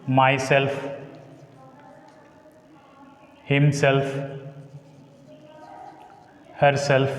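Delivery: Myself said with weight on self; stress on self. Shown as a demonstration. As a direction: hit the self in each word. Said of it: "takes stress on the S".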